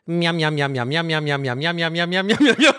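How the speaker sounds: chomp along like a cartoon dad eating; Homer munching noises. Retelling a Simpsons scene, host imitates Homer munching. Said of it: "Und dann kommt".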